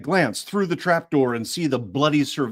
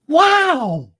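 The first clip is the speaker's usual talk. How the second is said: put-on high chirpy girl's wow; a first try at a chirpy high voice; trying out Pepper; 7 dB louder than usual. Shown as a demonstration. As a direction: squeak it out bright and high. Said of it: "Gotta do some pepper".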